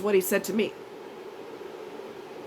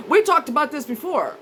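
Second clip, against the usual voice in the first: mocking friend; 5 semitones higher than usual. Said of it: "they'll count how many times".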